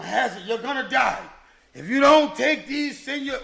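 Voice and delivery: half-hammed nurse yelling a warning; mock warning shout. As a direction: shout the nurses' threat at him. Nurses warning him in retold scene.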